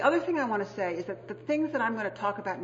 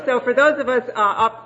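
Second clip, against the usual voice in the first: laughing; 4 semitones higher, 11 dB louder than usual. Real, not acted. Still laughing.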